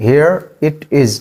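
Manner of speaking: drawn out slowly. Shown as a demonstration. Teacher repeats the phrase slowly to model it. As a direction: stretch it for learners. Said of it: "इसको English में कहते हैं".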